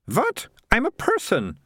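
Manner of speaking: put-on high, prim young girl; girl's voice. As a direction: answer like a bossy girl.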